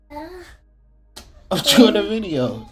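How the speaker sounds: slow, stretched, pointed repeat; drawn-out warning. Real, not acted. Repeating to interrupting kid.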